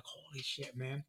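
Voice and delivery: quiet stunned relief; awed. Retold or imitated. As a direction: breathe it out like a revelation. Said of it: "and I was like".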